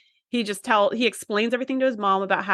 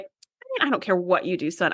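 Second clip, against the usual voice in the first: mock Beverly; 2 semitones lower than usual. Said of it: "I can't see her really being like".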